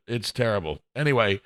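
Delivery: normal talking voice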